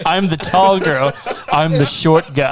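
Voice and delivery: mock movie lines. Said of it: "I just wanna see".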